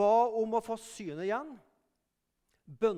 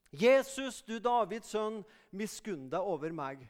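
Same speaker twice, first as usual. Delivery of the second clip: calling out; 3 dB louder than usual. Retold or imitated. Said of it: "Han roper Bartimeus om nåde".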